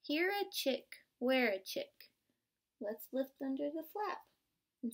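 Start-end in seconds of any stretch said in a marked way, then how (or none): 0.0-1.9 put-on sing-song storybook refrain for kids; bouncy picture-book refrain; read-aloud refrain. Shown as a demonstration. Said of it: "So let's start off".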